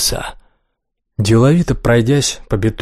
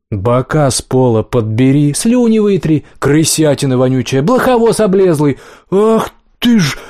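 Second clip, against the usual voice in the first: insulting. Acted. Rat and cat trade insults.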